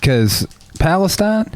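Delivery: high, slow, deliberate retort; mock lecturing. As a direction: spell it out slowly as a mock correction. Acted mock-lecturing reply to people.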